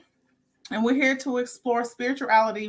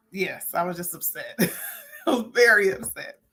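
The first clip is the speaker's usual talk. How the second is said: laughing admission. Real, not acted. Laughs while admitting being upset.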